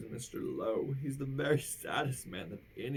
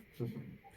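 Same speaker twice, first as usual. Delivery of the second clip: giggle; 7 dB quieter than usual. A narrator's reading. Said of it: "his giggle grew by half".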